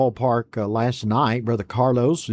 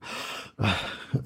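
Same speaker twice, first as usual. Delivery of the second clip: yawn; 4 semitones lower, 9 dB quieter than usual. Real, not acted. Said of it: "pardon me if you see me yawning".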